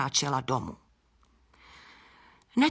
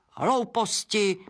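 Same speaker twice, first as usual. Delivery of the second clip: slow, scoffing spit of a word; scornful bat; 4 semitones higher, slower than usual. Acted. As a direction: dismiss it with a sneer. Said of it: "prskl netopýr". (pohrdavě prsknuté)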